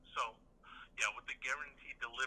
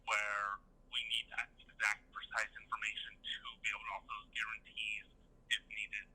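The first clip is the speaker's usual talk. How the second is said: distant phone sound; on speakerphone. Real, not acted. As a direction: voice through a speakerphone. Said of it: "it sounds like I'm on speakerphone or something".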